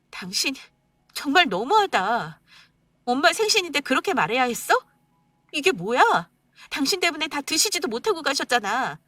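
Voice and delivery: wife reproaching husband for mother leaving; reproachful wife. Acted. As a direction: call him out, wounded.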